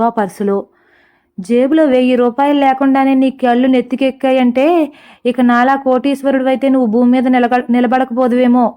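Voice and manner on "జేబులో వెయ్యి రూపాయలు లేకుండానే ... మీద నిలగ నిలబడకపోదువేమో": mildly mocking, sneering taunt; sarcastic. Car owner mocks the broke stranger, light sarcasm. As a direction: needle him with light sarcasm. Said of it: "అంటుంది వెటకారంగా".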